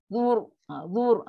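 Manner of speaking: "zur" with a heavy final r; thick ra. Shown as a demonstration. Teacher shows the stopped ending, thick ra. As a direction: arch the tongue through "zur". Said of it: "pun ra yang tafkim lah".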